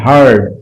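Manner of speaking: হার্ড said singly, ending on a clear "d"; final d sound. Shown as a demonstration. Teacher repeating heard for students, clear final d. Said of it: "ডি উচ্চারণ হচ্ছে".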